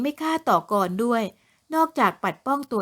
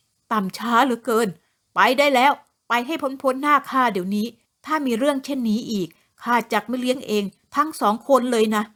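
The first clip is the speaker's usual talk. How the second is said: angry dismissal. Acted. The lord drives his two wives away, angry dismissal. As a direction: drive them away in anger. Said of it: "หลวงราชสักขับไล่เมียบ่าว".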